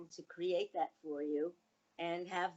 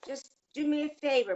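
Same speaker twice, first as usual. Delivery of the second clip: retold son's plea; 7 semitones higher, 7 dB louder than usual. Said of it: "And he said".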